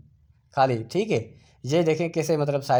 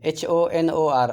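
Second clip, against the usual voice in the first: spelled out slowly; slower than usual. Shown as a demonstration. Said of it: "इसी तरह ऑनर है".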